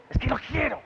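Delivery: put-on high-pitched child demand at normal volume; contained version of a child's insistent plea; insistent little daughter. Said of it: "when she wants something, she says".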